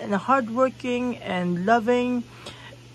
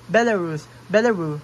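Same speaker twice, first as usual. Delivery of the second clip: Belarus said louder and dropping the final S, as the guy did; Belarusian pronunciation; 5 dB louder than usual. Retold or imitated. Imitating a Belarusian guy saying Belarus, no S. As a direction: copy the local way: Belarus without the S. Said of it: "pronounced it like he's from Belarus".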